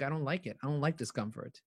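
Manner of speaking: mock them like sulky kids; whiny imitation. Mimicking people who shy from discomfort, a soft whine. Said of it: "And they're like".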